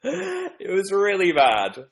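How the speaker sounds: embarrassed laughing wail. Real, not acted. Embarrassed laughter over failed accent.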